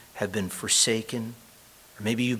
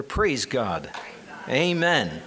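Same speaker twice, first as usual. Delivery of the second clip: rousing call; 2 semitones higher, much slower than usual. Real, not acted. Preacher prompting the congregation after a reminder, rousing call. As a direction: exclaim it to rally the congregation.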